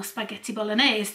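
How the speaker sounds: put-on "spaghetti bolognese" said in a half Italian, half English accent; light mock Italian accent on "spaghetti bolognese". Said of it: "I kind of did that in, like, a half Italian, half English accent".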